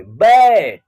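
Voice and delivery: बैट with a long open 'ae'; AI vowel in बैट. Shown as a demonstration. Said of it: "ए का उच्चारण ऐ के रूप में". (बैट में लंबा ऐ)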